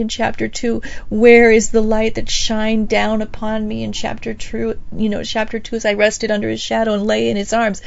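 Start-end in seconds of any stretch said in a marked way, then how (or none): 1.1-3.8 longing cry. Acted. Bride crying out in streets.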